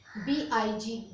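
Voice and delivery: "बी आई जी" as three slow separate letters; spelled letter by letter. Shown as a demonstration. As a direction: spell out "बी आई जी" very slowly, letter after letter. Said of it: "जैसे मैंने बोला बिग".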